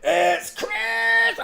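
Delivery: drawn-out sing-song Christmas cheer; festive cheer. Pretend. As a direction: stretch it out like a party host. Festive shout after plain line.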